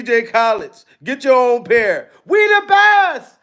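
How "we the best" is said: loud, high hype-man yell; big brash boast like a famous DJ; a DJ's shout. Retold or imitated. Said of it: "That's how D J Khaled be".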